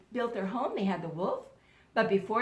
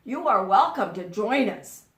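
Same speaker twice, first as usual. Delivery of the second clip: pig welcoming; 3 semitones lower, 5 dB louder than usual. Acted. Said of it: "said the pig".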